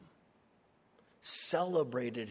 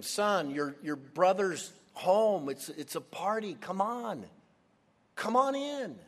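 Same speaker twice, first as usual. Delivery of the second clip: coaxing plea climbing much higher at the end; pleading father; 5 semitones higher than usual. Acted. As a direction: coax him in, then beg. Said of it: "he's pleading with him".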